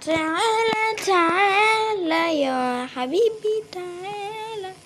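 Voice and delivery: teasing coaxing. Real, not acted. Coaxing an enemy closer.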